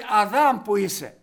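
loud call, stretching the name Αδάμ; God calling for Adam, a loud call. Acted. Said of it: "φωνάζει".

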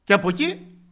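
loud, high, fervent sermon voice; preaching at full force. Acted. Preacher telling the congregation of the rich man, fervent loud preaching. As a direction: preach it out to the whole church.

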